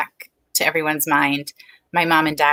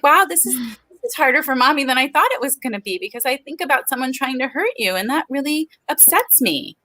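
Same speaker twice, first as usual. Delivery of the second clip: higher-pitched mommy voice, candid about being upset; parent confiding in child; 6 semitones higher than usual. Acted. Mother fumbles through a hard talk with her kids, candid parent voice. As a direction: model a heartfelt talk with your kid. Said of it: "when you talk to your kids".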